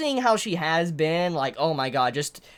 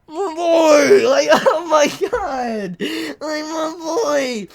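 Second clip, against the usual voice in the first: laughing despair; 5 semitones higher, 4 dB louder, much slower than usual. Real, not acted.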